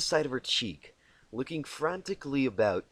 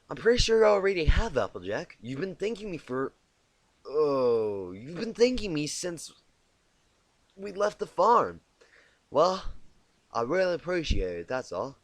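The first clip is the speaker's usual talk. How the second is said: Twilight; 6 semitones higher, 7 dB louder than usual. A narrator's reading. Twilight voiced in story.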